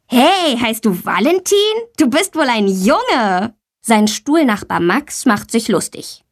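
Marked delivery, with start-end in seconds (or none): 0.1-3.6 high mocking boy's taunt; a schoolboy jeering at a classmate; teasing call. Boy Tommy mocks Valentina's name, teasing.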